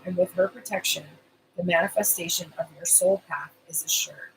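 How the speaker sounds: oracle card reading. Acted. Reads oracle card text aloud.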